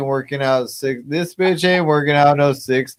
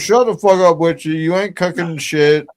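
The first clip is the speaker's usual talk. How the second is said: raised, high-pitched mock tirade; mock angry yelling; 4 semitones higher than usual. Ribbing Wishy over her cooking.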